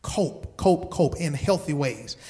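soft repeated cope. Shown as a demonstration. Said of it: "basic coping".

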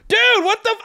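high-pitched mock indignation; joking outrage. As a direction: protest high, joking through it. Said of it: "I'm smiling and joking through it".

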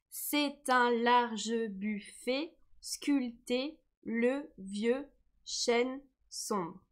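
slow, measured poem recitation; poem reading. Shown as a demonstration. Teacher reading the poem aloud to the class, slow and measured. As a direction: read the verse slowly, weighing each syllable. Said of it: "reading the poem line slowly".

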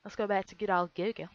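badly faked Australian accent; mock Aussie accent, lightly done; crappy Australian accent. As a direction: have a clumsy go at Australian. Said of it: "My crappy Australian accent".

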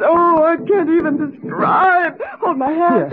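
crying out for help; tearful plea. Acted. Wife begging husband to hold her hand, tearful. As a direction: sob it out and reach for him.

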